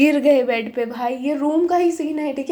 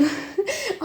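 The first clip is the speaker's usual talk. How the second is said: flustered giggle; 8 semitones higher, 7 dB quieter than usual. Real, not acted. Flustered laugh after exclamation.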